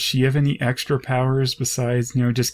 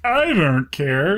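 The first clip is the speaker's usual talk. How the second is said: mock careless drawl; 4 semitones higher, slower than usual. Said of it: "then she's like".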